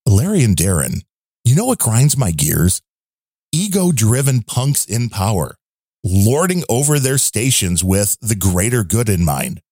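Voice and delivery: lightly put-on character, holding back from shouting; subdued character voice. Host reads a listener's note in subdued character voice. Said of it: "he likes the more subdued voice".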